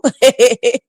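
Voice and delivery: short scoffing chuckle; brief real laugh; amused laugh. Real, not acted. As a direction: chuckle at the absurdity. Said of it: "I'm just laughing now".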